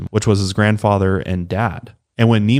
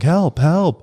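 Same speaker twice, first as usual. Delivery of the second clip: imitating a panicked cry for help, higher; hammed-up retold call for help, pitched up; mock yell for help; 9 semitones higher than usual. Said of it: "starts yelling for help".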